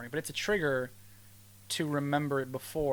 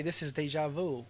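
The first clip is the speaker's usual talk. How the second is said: lightly Brooklyn deja vu; a hint of Brooklyn; Brooklyn accent. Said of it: "Brooklyn accent".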